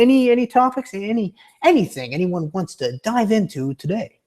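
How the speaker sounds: stupid high voice. Pretend. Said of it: "I'm gonna stop with this stupid voice".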